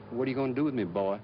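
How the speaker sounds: smooth, full-sentence refined Atlanta Southern accent. Shown as a demonstration. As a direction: let the Atlanta Southern flow politely. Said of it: "Atlanta is a very refined".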